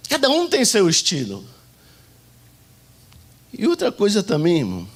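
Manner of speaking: ordinary talk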